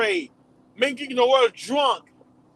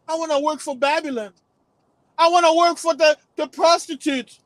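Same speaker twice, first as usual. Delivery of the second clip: whiny complaining voice; 4 semitones higher than usual. Retold or imitated. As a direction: beg to go back like a whining slave. Voicing complaining ancestors.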